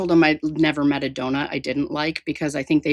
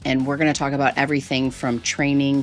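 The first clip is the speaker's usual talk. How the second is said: low, steady host voice over music; podcast intro read; 3 semitones lower than usual. Acted. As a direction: read it like a show opener.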